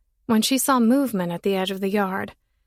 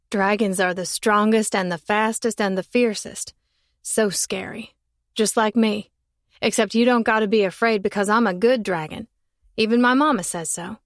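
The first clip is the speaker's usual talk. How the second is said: put-on boy calling up the tree, unbothered; curious boy. Boy asking the girl up the tree, lightly voiced.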